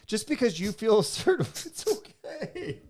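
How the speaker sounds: high falsetto reassurance breaking into a laugh; high-pitched consoling. Real, not acted. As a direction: console a crying friend in a squeaky voice. Consoles tearful co-host.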